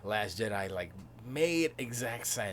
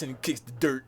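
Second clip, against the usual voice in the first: ordinary talk, nothing marked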